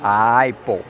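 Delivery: Apple said as Aipple, the a gliding to i; Apple with an ai glide; Apple the English way. Shown as a demonstration. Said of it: "A Inglaterra também fala Apple".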